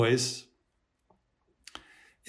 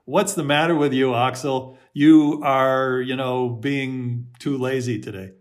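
harsh inner critic. Shown as a demonstration. Inner critic scolding Axel for laziness, harsh. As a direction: scold Axel for being lazy. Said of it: "The critical voice says".

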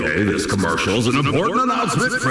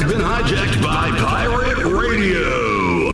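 pirate radio broadcast; 4 semitones higher, slower than usual. Acted. Pirate radio takeover announcement.

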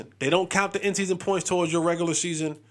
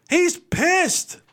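slow, raised, high hype-man read; slow dramatic sports-show opener, pitched up; dramatic announcer; 6 semitones higher, much slower than usual. Acted. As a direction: announce it like breaking news, drawn out. Dramatic breaking-news style intro.

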